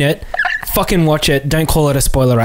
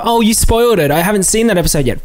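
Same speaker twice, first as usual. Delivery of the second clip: whiny mock complaint; 5 semitones higher than usual. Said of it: "comes at you with that whole, like, complaint".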